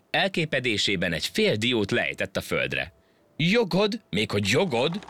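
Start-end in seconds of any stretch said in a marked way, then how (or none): 3.4-5.1 outraged disbelief. A narrator's reading. The monkey, scandalised at an ant's rights, shrieks. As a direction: squeal the word back in disbelief.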